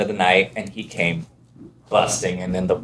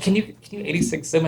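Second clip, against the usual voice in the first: cutesy femme voice; 8 semitones higher than usual. Retold or imitated. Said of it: "my character was very cutesy femme".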